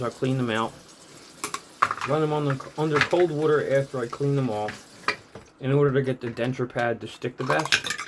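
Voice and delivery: talking around toothpaste foam; mouth full of toothpaste. Real, not acted. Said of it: "I have toothpaste in my mouth".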